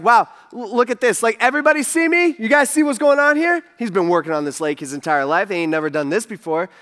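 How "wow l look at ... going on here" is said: higher, quick, thrilled bragging; lightly voiced giddy Peter; giddy showing off. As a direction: show off to the boat. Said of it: "if he's just like".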